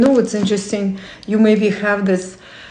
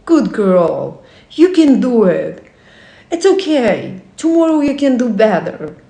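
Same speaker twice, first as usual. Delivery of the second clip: self-encouragement; 2 semitones higher than usual. Acted. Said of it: "when you cheer yourself up".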